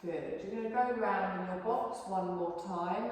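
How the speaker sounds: calm, unhurried yoga relaxation voice; guided meditation. Acted. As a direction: guide the class gently into rest. Yoga teacher leads relaxation.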